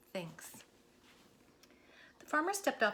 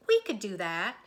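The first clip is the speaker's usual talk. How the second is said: lightly voiced cow, louder; eager cow suggesting an idea; voiced cow Moo; 8 dB louder than usual. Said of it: "she said".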